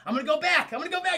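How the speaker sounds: hammed-up determined outburst; fervent resolve. Character suddenly resolves to return.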